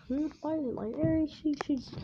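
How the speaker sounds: put-on high childlike musing; little girl voice. Eri wondering aloud, very high childlike voice. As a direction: think aloud like a small girl. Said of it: "she's like".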